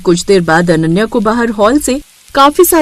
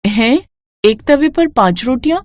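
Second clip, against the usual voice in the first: disbelief. Acted. Bride shocked by demand.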